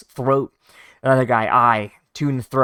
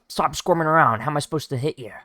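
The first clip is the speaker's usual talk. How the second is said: bandit taunting; 4 semitones higher, faster than usual. Retold or imitated. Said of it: "says the bandit".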